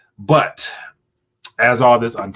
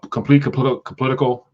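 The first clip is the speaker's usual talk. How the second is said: stuttering; 2 semitones higher than usual. Real, not acted. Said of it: "man, I'm stuttering today".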